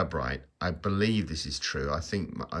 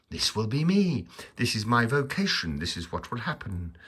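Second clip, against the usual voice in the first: tag-worthy resolve; 4 semitones higher than usual. Retold or imitated. Acting out his youthful resolve.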